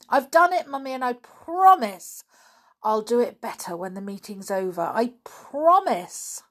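put-on high, loud child's pleading; earnest plea with stretched, emphatic promises; breathless-to-please girl, pitch lifted; eager promise. A narrator's reading. Janet rushes downstairs, pleading to Mummy.

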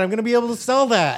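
laughing. Pretend. Joke voice laughing.

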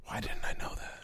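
hushed, voiceless aside; embarrassed whisper. Real, not acted. Podcaster admitting he didn't know that, embarrassed whisper. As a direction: whisper it to yourself.

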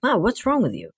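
mild retold bewilderment; bewildered. Retells alarmed reaction to mother.

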